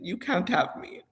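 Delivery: hushed, voiceless scolding; whispering back at the spirit, scolding it; whispered scolding. Retold or imitated. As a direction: hiss the rebuke under the breath. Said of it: "I said".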